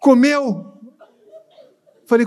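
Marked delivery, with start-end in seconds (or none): 0.0-0.7 high, loud, tearful weeping and sobbing wail. Retelling what the crying pastor said about the bank: imitating someone crying. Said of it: "Ela, ela chorando".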